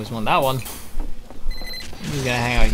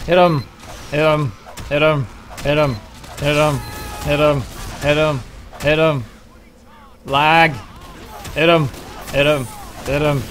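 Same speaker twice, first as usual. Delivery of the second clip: excited urging. Real, not acted. Urging on a fight.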